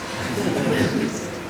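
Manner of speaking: quiet, breathy mocking chuckle; derisive laugh. Man mocking his brother's consumer boycott, derisive laugh. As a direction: laugh softly in contempt.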